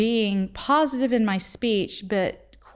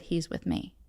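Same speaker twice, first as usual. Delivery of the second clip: soft, breathed whisper of a divine voice; quiet retold whisper; hushed whisper; 5 dB quieter than usual. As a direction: whisper it as a still small voice. God speaking to her in prayer.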